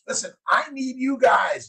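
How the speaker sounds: pumped-up plea to his fans; rallying shout. Real, not acted. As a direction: call the tribe to attention. Rallying his tribe of viewers.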